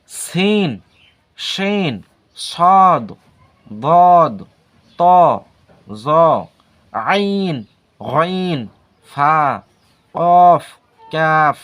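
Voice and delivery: each letter name called out loud and separate; reciting Urdu letters. Shown as a demonstration. Teacher reciting the Urdu alphabet to students, loud and clear. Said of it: "দেখেন এটা হলো উর্দু হরফ".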